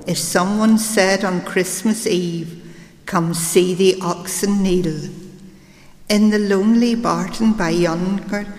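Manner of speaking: poem reading. Acted. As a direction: recite it like a storyteller by the fire. Recites Hardy's poem after intro.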